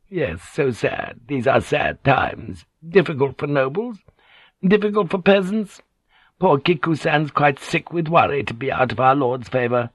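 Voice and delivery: put-on woman's lament; lamenting Kyoko. Kyoko lamenting sad times to the lady, plaintive.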